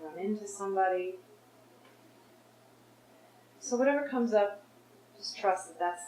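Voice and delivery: unhurried guidance with long pauses; guided meditation. Real, not acted. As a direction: lead them inward, phrase by phrase. Leads a guided forgiveness exercise.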